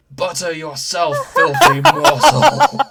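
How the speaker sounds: hammed-up evil shout; shouted line. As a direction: bellow it like a mad villain toaster. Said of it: "I have to shout out this line".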